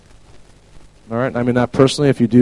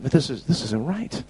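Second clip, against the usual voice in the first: compassionate; 3 semitones higher, 5 dB quieter than usual. Retold or imitated. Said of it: "He's having compassion".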